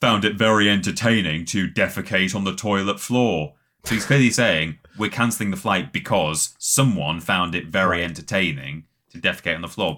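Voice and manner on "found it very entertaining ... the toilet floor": sarcastic, annoyed announcer-style delivery. Retelling a pilot's announcement to the whole plane, imitating sarcastic pilot. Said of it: "he sarcastically says".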